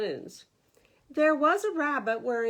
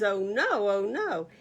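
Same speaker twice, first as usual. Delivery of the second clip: panicked; 6 dB louder than usual. Acted. Rabbit panics about shamrocks.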